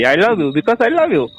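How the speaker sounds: slow words broken by laughter; laughing through sweet-talking your sister. Retold or imitated. Coaxing his angry sister, slow and laughing. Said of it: "इतना मीठा मीठा बोला".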